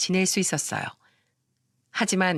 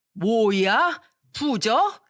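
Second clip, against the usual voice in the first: 놀란 시어머니; 2 semitones higher, much slower than usual. Acted. 시모가 놀라 되물음.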